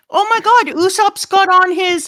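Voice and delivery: high-pitched mock astonishment; shocked outcry. Crew reacting to Usopp's hit, shocked. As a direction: gasp it out like a stunned onlooker.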